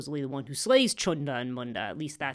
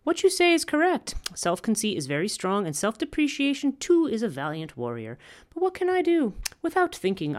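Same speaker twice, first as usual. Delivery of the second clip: much higher, louder goddess voice, lightly coy; goddess replying; 4 semitones higher, 4 dB louder than usual. Acted. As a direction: play the goddess feigning helplessness. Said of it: "and the goddess says".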